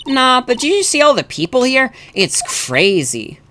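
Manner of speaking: high, swooping chatty voice; gushing about what's been seen; excited game sidekick. Acted. Voicing game dialogue.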